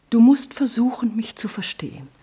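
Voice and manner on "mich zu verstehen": pleading whisper. Acted. Mother pleads with her son.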